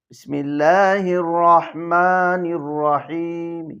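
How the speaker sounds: slow recitation, final মি faintly sounded; রহিম ending barely voiced; rawm with one alif. Shown as a demonstration. Teacher demonstrating rawm with qasr, faint ending. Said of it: "সামান্য একটু মি উচ্চারণ করব".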